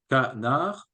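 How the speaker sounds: "canard" said as two spoken syllables, ca-nard; oral syllables. Shown as a demonstration. Teacher to class, showing oral syllables: canard in beats. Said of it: "on travaille sur les syllabes orales".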